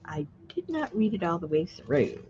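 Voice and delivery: whispered aside. Real, not acted. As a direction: breathe it out, no voice. Quiet aside to herself.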